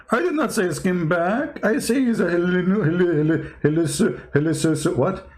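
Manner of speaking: sneering imitation of the caller tripping on his words; mocking impression. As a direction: parrot the caller, stumbling over the word hallucinating. Mocking the Jewish caller's stammer.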